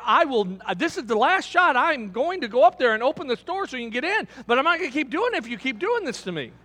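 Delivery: a man fed up, laying down an ultimatum; hammed-up indignant line-cutter; indignant protest. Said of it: "he's pretty indignant at this point".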